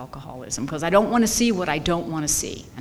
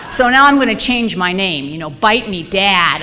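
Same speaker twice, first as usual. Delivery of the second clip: angry outburst; 7 dB louder than usual. Real, not acted. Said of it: "I am pissed".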